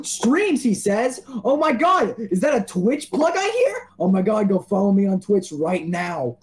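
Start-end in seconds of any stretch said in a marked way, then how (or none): 0.1-3.9 mock surprise. Mock surprise at own plug.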